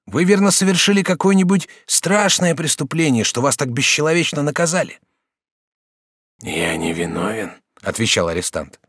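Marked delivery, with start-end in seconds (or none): 0.1-5.0 higher, brighter-pitched polite youth; lightly raised student voice; young student Jacques. Acted. Student asks. 6.4-7.5 slow, low, fading voice; dying prisoner, slow. Acted.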